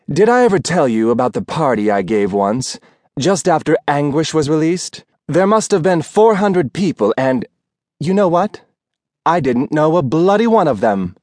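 a faded star bragging about her party; a hint of theatrical diva showing off; boastful aging actress. Rose reminisces grandly.

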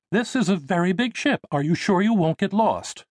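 high-pitched, worried motherly voice; fussing mother. Acted. Mother to son about exploring the ship, high-voiced fretting.

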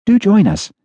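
high, gracious society lady; Priscilla voice. A narrator's reading. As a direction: invite them sweetly, up high. Priscilla's polite invitation.

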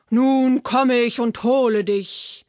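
lightly voiced troll threat; a hint of a menacing troll, pushed at the start; troll calling out. A narrator's reading. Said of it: "rief der Troll". (leicht gespielte, drohende Trollstimme)

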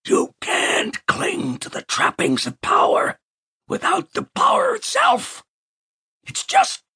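mock pompous Wilson lecture; booming Wilson voice. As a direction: boom it down from the ceiling as Wilson. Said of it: "boomed down in the voice of Wilson".

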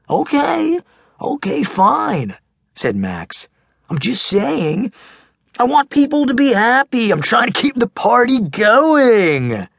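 high, loud protesting; defensive big kid. Acted. Max giving in.

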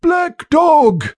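high, strained cry of recognition; shocked gasp. Acted. Captain recognising his old enemy, high and shocked. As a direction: blurt the name as if seeing a ghost.

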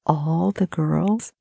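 slow, disbelieving question rising; stunned disbelief. Acted. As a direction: echo his words in shock. Brittany echoing in disbelief.

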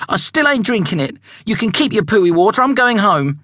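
put-on high, insistent young zebra voice; a stubborn kid digging in; young zebra Julius. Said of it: "insisted Julius".

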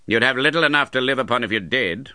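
contemptuous. Acted. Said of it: "eyeing him contemptuously".

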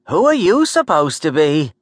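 high-pitched New York woman, demanding; sharp New York accent. A narrator's reading. Gert questioning the intruder, sharp New York accent. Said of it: "asked in a New York sharp accent".

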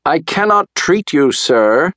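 high, firm storybook shout; shouted refusal. A narrator's reading. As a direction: call it out high to someone below. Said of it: "Doctor DeSoto shouted".

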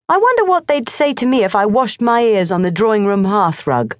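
put-on high, aggrieved boyish voice; a boy complaining to his cat; boy Morris grumbling. A narrator's reading. Morris complains to the cat about school, high and aggrieved.

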